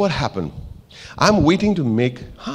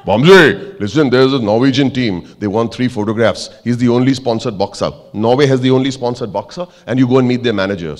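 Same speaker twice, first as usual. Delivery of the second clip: calling out; 6 dB louder than usual. Retold or imitated. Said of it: "He calls me and said".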